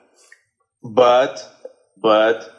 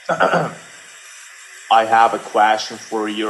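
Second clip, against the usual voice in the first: slow, drawn-out mock American accent; American accent attempt; much slower than usual. Shown as a demonstration. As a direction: stretch it out like an American would. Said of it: "try to talk like an American person, with more compression".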